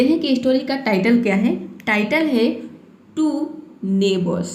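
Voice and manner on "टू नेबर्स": टू neighbours said slowly, word by word; slow model reading. Shown as a demonstration. Teacher slowly reads the story title aloud. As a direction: read टू neighbours slowly for the class. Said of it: "इसको हम क्या पढ़ेंगे".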